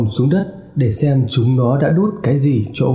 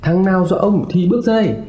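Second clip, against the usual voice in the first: high, fast threat yelled into the dark house; furious shout; 4 semitones higher, faster than usual. Acted. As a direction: roar the threat at the unseen pranksters. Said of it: "vừa hét lên".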